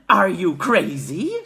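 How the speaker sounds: woman shouting in disbelief. A narrator's reading. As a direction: scoff loudly. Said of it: "shouted a woman".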